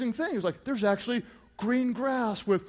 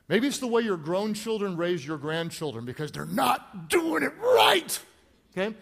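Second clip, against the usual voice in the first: exasperated outburst. Acted. Mocking grown children's parenting.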